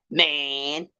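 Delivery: imitating Floyd. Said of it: "So Floyd come out and say".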